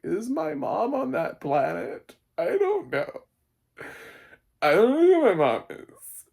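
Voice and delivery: put-on high, loud, shrill-pitched whimpering girl; hammed-up high girl voice; mock whiny girl. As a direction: squeak it out like a lost teen. Mimics girl asking about mom.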